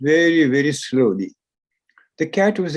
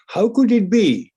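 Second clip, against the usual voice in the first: wondering; 7 semitones higher than usual. Acted. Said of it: "they wondered".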